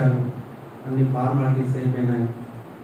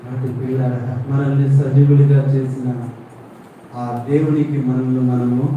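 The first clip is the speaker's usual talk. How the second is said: usual speaking voice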